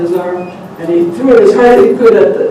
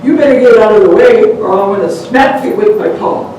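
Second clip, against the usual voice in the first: loud gruff warning; creature's threat; 2 semitones higher, 5 dB louder than usual. Acted. Creature warning the man to move, loud threat. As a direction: threaten him to get out of the way.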